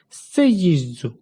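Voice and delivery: put-on сце їжджу said slowly, with lisping s sounds like a toddler; like a small child. Shown as a demonstration. Teacher imitating a small child's speech for the class. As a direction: say сце їжджу the way a little kid would, slowly. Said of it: "вимовити так, як мала дитина".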